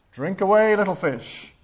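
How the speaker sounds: a river generously inviting the little fish to drink; Father Thames. Retold or imitated. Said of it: "And Father Thames said".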